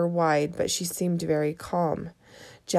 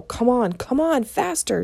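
urgent, rising, louder come on; urgent order; 6 semitones higher, 4 dB louder than usual. A narrator's reading. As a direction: Jack urging the mini sub faster, higher and louder. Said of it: "Jack ordered".

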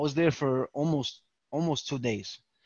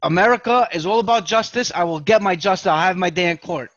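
louder, laughing through a grand speech of justice; mock defiant proclamation; 6 dB louder than usual. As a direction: proclaim it like a courtroom hero, half joking. Retelling his defiant stance.

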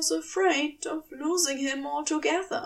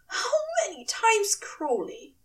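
high, quick angel demand; angry angel; 10 semitones higher than usual. Acted. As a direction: demand it with full name, high and sharp. Aziraphale presses.

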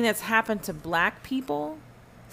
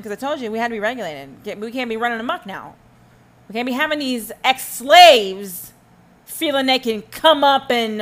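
1 mock slaveholder; 6 dB louder than usual. Voicing slaveholders after emancipation.

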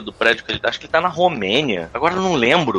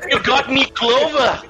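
high, playful Irish leprechaun voice; squeaky cartoon leprechaun; 11 semitones higher, much slower than usual. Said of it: "aprenda a falar que não lê Leprechaun".

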